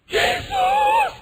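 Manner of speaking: very high scream of the name; mock terrified cry; imitated frightened believer. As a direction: shriek it like a panicked Christian. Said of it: "orang Kristen rupanya dia".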